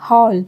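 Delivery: हॉल with a rounded open o, not the a of हाल; open o sound. Shown as a demonstration. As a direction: say हॉल like English hall. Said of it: "इसको हम हाल नहीं बोलेंगे".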